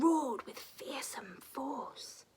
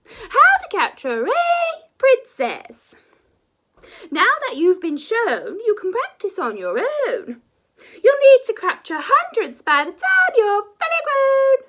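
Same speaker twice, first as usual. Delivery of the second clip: loud teacher dragon; 11 semitones higher, 15 dB louder than usual. Acted. Teacher dragon booming instructions to her young class. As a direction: proclaim it like a grand dragon teacher.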